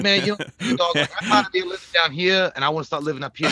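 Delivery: lightly put-on Detroit street talk; a hint of Detroit accent. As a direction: imitate a Detroit local talking slang. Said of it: "talking like a rapper if I lived in Detroit".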